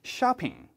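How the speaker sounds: "쇼핑" said with the mouth opened wide, not the Korean way; open-mouth shopping. Shown as a demonstration. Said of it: "쇼핑이라고 입을 좀 더 크게".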